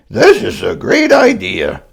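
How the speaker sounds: put-on high, delighted child voice; happily. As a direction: beam it out with joy. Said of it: "Grover said happily".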